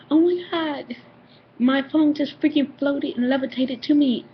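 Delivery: high, worked-up imitation of a sister; acted astonishment; retold freak-out. Sister reports her floating phone.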